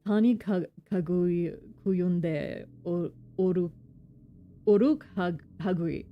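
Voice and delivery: halting second go at "Oru", breaking off; struggling foreign pronunciation. Acted. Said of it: "trying so hard with the kin language".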